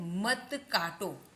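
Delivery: slow, stretched example phrase; slow model. Shown as a demonstration. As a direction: read it out slowly for learners. Slow headword, later said in use. (धीरे-धीरे खींचकर पढ़ते हुए)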